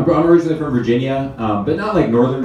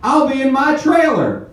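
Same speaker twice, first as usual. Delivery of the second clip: high, slow redneck movie star voice; 3 dB louder, slower than usual. Pretend. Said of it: "my impression of a redneck movie star".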